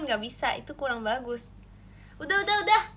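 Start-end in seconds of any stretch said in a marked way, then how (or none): 2.2-2.8 loud stop. Real, not acted. Stopping the chat's requests.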